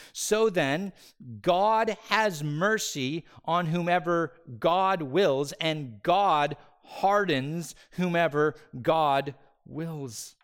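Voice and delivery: slow, loud, deliberate proclamation; emphatic scripture. Acted. Preacher reading Romans nine to the church, slow emphatic proclamation. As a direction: lay each word down, slowly.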